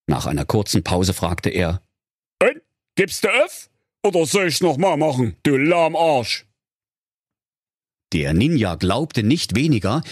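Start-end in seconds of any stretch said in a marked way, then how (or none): 2.4-6.5 high, fast cheeky voice; cheeky hero voice. Acted. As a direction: rattle it off cheekily. Lars taunts ninja.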